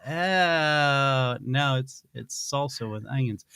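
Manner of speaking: lightly acted embarrassed confession; date impersonation. Date owning up to onion breath, sheepish. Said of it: "my impersonation of a date gone wrong".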